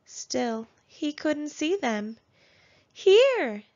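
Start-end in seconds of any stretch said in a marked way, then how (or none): 2.9-3.6 high, loud teasing shout; crying out. A narrator's reading. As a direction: yell it right in his face. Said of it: "they cried".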